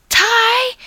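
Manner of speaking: loud high call of a name; yelled. Acted. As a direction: call after him across the room. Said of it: "Jason yelled".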